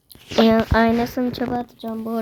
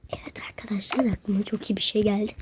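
softer conspiratorial whisper; 5 dB quieter than usual. Real, not acted. Whispering a new prank plan to viewers. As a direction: plot it in a whisper.

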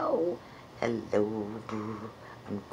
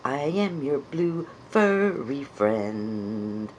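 slow puppet voice; slower than usual. Shown as a demonstration. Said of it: "learn to know what my voice sounds".

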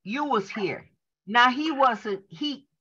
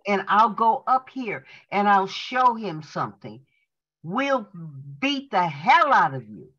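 emphatic, measured preacher's reading; enthusiastic reading. Acted. Student reads the doctor's sermon to the congregation, with enthusiasm. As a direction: read it aloud with enthusiasm, phrase by phrase. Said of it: "read it with enthusiasm".

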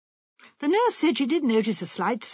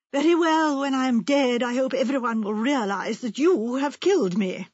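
raised, bitter threat from a wronged wife; bitter reproach; 3 dB louder than usual. Retold or imitated. Wife hurling a bitter accusation at her husband, raised bitter reproach. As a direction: fling it at him like an accusation. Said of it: "She said one day".

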